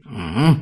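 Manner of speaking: low grunted hum; piglet-like grunt. A narrator's reading. Wife answers her husband without words, piglet-like grunt. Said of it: "disait Virginie tout comme un cochon de lait".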